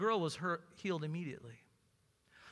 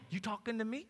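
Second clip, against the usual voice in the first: playful attempt at a New Jersey accent; 6 dB quieter than usual. Preacher jokingly voicing Samuel answering God, New Jersey accent. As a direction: put on your best New Jersey accent. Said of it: "New Jersey accent".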